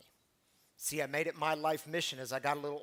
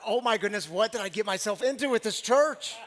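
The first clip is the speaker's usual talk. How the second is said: louder, higher exasperated disbelief; mock dismay; 4 semitones higher, 6 dB louder than usual. New pastor thinking to himself after the boy's critique, mock dismay. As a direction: play up the comic alarm.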